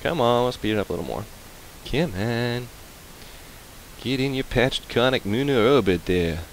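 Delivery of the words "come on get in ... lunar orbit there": hammed-up New York accent; bad New York accent. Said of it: "that was a really bad New York accent".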